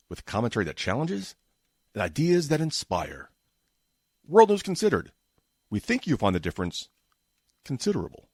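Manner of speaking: polished promo read with swooping pitch; measured announcer cadence, key words lifted; voice-over script read. Shown as a demonstration. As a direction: sell it like a news show promo. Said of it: "This is the script I had to read".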